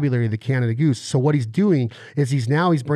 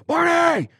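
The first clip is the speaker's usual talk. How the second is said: name called much higher with a sharp lift; rising inflection call. Shown as a demonstration. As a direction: call Barney with big upward inflection. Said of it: "you gotta go".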